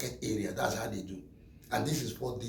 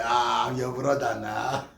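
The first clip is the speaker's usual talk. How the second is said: slow, drawn-out mock plea to a brother; pleading; 6 dB louder, slower than usual. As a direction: stretch it out like begging a friend. Pleading not to be deported.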